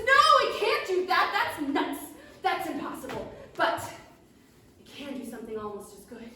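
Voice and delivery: high, loud, triumphant little gnome. Acted. Gnome alchemist cries out over his bubbling potion, high and loud. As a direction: crow it like a tiny gnome who succeeded. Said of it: "And he says".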